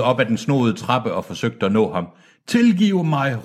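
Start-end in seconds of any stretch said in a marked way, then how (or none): 2.5-3.4 high, falling cry for forgiveness; pleading shout. A narrator's reading. Departing man begging forgiveness, short high cry. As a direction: call it out high and quickly let it fall. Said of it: "råbte han".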